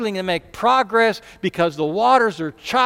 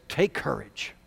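gentle command; 5 dB quieter than usual. Acted. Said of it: "He says".

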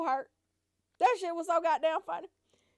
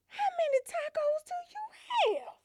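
whisper; 3 dB quieter than usual. Retold or imitated. Aunt's secretive question.

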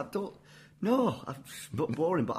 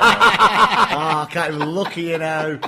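laughing; 12 dB louder, slower than usual. Real, not acted. Reacting, laughing.

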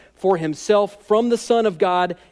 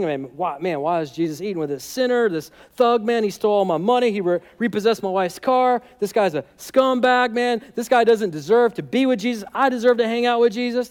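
grumbling; 2 semitones higher than usual. Acted. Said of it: "they start grumbling".

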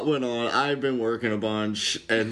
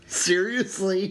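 drawn-out, higher-pitched astonishment; possibly sarcastic amazement; 6 semitones higher, slower than usual. Real, not acted. Co-host reacting to the jump back to ancient Egypt, possibly sarcastic. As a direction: react as if amazed, maybe too amazed. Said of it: "can't tell if you're being sarcastic".

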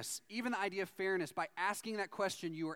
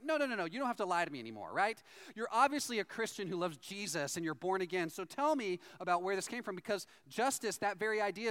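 eager pleading; 5 semitones higher than usual. Retold or imitated. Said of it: "He's like".

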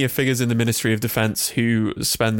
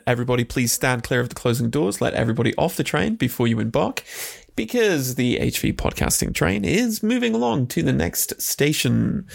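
mock train conductor announcement; lightly voiced platform announcer; subway announcement. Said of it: "train related Patreon plug".

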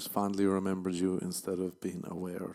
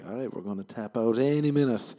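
voice about to quit; 3 semitones higher, 8 dB louder than usual. Retold or imitated. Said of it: "my voice is like".

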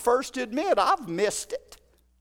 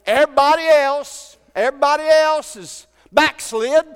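louder, higher, whiny boast of being the last; self-pitying Elijah; 3 semitones higher, 6 dB louder than usual. Retold or imitated. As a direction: play Elijah puffed up and sorry for himself. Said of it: "Isn't that what Elijah said?".

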